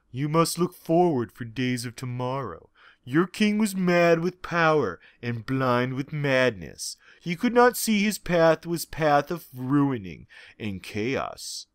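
soft, quiet, calm lecturing; calm wisdom. Acted. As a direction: speak like a gentle wise mentor. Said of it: "lectured with calm wisdom".

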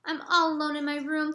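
lightly voiced child, a touch forlorn; a small boy feeling alone in the dark; lonely little boy. Jeremy alone in his bed, lightly childlike and forlorn.

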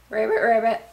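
playful ribbit in a worn voice; lightly voiced frog noise. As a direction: croak out a mock frog call. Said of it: "I sound like a frog".

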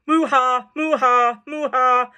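mooing laugh; lightly voiced cow laughing. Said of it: "I guess that's how cows laugh".

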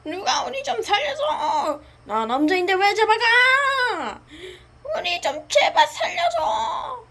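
high, half-laughing crying plea; hammed-up desperate begging; pleading cry. Captives beg to be rescued.

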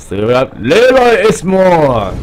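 เลรอย เอสมอร์ read slowly, syllable by syllable, guessing the French; unsure French name. Shown as a demonstration. Gamer guessing a French name aloud, slow careful reading. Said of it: "ไม่รู้อ่านแบบนี้ถูกหรือเปล่านะ".

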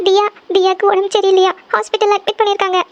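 pleading to go home at once; a mother scared for her child, close to crying; frightened, near tears. Acted. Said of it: "எதுக்கு அழுதுட்டு இருக்கீங்க?".

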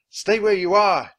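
high, loud warning; shouting. A narrator's reading. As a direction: shout a firm order to stay back. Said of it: "Jack shouted".

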